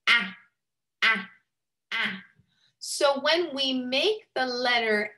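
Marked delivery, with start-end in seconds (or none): 0.1-1.3 open-mouthed "ah"; short a sound. Shown as a demonstration. Teacher showing kids how the mouth forms "ah". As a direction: show the mouth shape on "ah". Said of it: "See how my mouth goes?".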